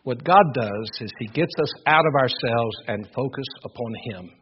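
ordinary talk, nothing marked

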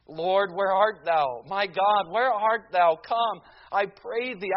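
loud, pleading prayer read with full force; fervent prayer. Acted. Luther prays to God the night before his answer, loud and fervent. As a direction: cry out to God in anguish, building.

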